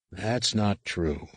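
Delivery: slow, soft correction; said gently. Acted. Luke corrects his angry niece gently, slow and soft. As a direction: ease her down gently. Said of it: "Luke said gently".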